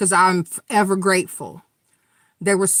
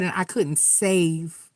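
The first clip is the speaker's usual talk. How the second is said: mournful retelling of a broken doctor; grieving, breaking; 3 semitones lower, 4 dB quieter than usual. Retold or imitated. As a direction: quote his despair as it slips away. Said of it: "He said".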